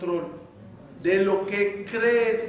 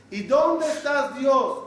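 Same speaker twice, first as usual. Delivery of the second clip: anguished plea; 5 semitones higher, slower than usual. Retold or imitated. Voicing someone's plea to God.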